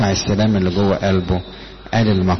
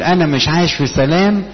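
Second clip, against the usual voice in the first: higher complaining voice, the troubled believer; a hint of a troubled believer's whine; imitated complaint; 7 semitones higher than usual. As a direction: lift it up like a worried person griping "انا مش عايش في سلام". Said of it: "ان انا اقول".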